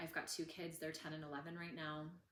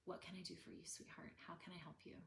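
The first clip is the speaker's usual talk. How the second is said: softer, kind voice to a little one; gentle to a child; 7 dB quieter, faster than usual. Shown as a demonstration. Mother soothing her child, softly and kindly. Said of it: "like you would with a small child".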